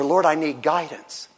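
gentle, burdened petition; earnest prayer. Shown as a demonstration. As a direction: pray it simply, confiding in God. Models a prayer for guidance.

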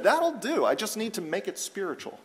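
mildly mocking, breezy pronouncement; casual mock quote. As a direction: toss it off as a mock verdict, high then dropping away. Mock quote of God settling for hominid.

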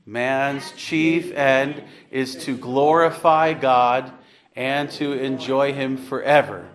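slow recitation; slow catechism recital; recited answer. Shown as a demonstration. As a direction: recite it slowly for the class. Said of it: "Let me hear you".

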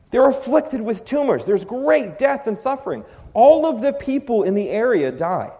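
fervent preacher, rising in pitch; preaching at full force. Acted. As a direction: drive it home from the pulpit. Preaching climax on judgment.

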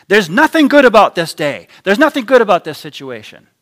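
loud, high sulky complaint; gloomy grumbling. Retold or imitated. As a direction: moan as if the day is ruined. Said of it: "Lies like this".

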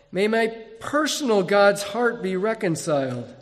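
pleading, anguished prayer read aloud; despairing prayer. Acted. Preacher voicing an ancient prayer, despairing and pleading. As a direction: plead with unknown gods in despair. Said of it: "you will hear the despair in my voice".

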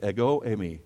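"Ego eimi" said as EH-go AY-mee; Greek pronunciation. Shown as a demonstration. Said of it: "Everybody say that".

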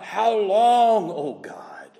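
loud, high plea, falling away at the end; crying out. Acted. Preacher voicing slaughtered saints' plea to God, crying out. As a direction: cry it out long and high, then drop. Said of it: "and crying out".

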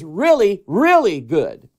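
REALLY, REALLY drawn out and leaned on; slow down and stress each REALLY before GOOD; emphatic inflection. Shown as a demonstration. Preacher showing his approval by inflection, slow stress on REALLY. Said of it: "by my inflection in my voice".

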